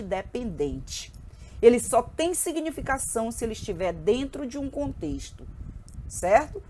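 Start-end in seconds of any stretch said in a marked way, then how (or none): 0.0-1.1 drawn-out emphasis. Real, not acted. Teacher stressing a key term.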